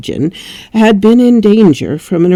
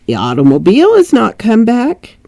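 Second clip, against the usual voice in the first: put-on English accent; 4 semitones higher than usual. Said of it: "why am I giving her an English accent?".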